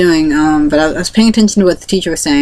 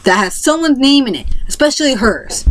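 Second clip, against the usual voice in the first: a hint of a scolding teacher, higher; mild angry teacher; 3 semitones higher than usual. Teacher scolding the mocking kid, mild reproach. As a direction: retell the teacher's reprimand lightly. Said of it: "she was really angry".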